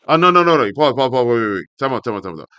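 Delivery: loud, high, rapid stop-stop; excited protest. Real, not acted. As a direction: shout him down in a rush. Excited interruption of reading article.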